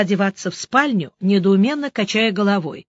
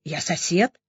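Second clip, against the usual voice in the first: soft, lower, uncertain reply; timid answer; 3 semitones lower, 5 dB quieter than usual. A narrator's reading. Vanya answering the doctor, timid and soft. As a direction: answer meekly, a bit scared. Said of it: "испуганно ответил Ванька".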